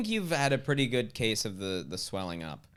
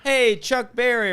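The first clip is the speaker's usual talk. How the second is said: Marvin Berry; 11 semitones higher, 7 dB louder than usual. Retold or imitated. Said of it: "what is it".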